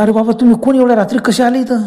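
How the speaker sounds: asking who these strangers are at night; surprised villager. Acted. Villager challenges the strangers arriving at night, lightly surprised.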